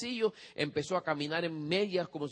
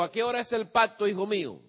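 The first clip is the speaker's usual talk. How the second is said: stern father; 4 semitones higher, 3 dB louder than usual. Retold or imitated. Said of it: "El padre le dijo".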